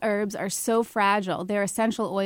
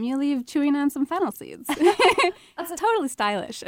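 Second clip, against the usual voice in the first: laughing; 6 semitones higher than usual. Real, not acted. Laughing at her own joke.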